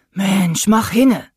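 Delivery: fed-up skipper cursing the hotline. A narrator's reading. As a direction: snap at the phone to hurry up.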